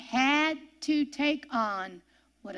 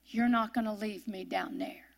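quiet faith; 4 dB quieter than usual. Retold or imitated. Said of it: "Do you hear the faith in that voice?".

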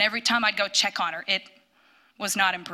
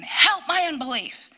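raised, pleading cry to God; crying out loud; 7 semitones higher than usual. Retold or imitated. Mother in the closet begging God for faith. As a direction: cry it out higher and louder. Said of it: "as loud as I could".

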